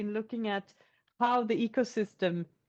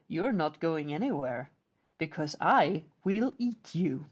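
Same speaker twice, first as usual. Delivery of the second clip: low troll; 6 semitones lower than usual. Acted. Troll threatens the boy.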